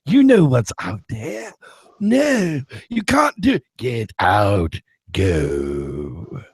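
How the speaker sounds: arguing pub patrons. Retold or imitated. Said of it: "pub quarrel retold".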